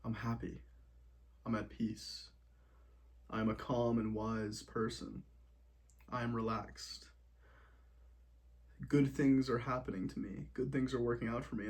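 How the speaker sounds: gentle positive self-talk; calm affirmations. Shown as a demonstration. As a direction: say each one quietly, letting it settle. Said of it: "start to say something like".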